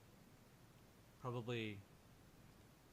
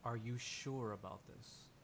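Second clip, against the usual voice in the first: slow, quiet, lower question; doubtful NPC reply; 4 semitones lower, 5 dB quieter than usual. Acted. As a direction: ask it slowly and softly, full of doubt. GM voices a weary, doubtful NPC reply.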